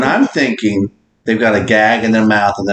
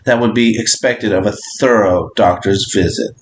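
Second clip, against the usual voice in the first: lower, measured read-aloud voice; 4 semitones lower than usual. Acted. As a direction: read out instructions evenly and deliberately. Reads out a prompt.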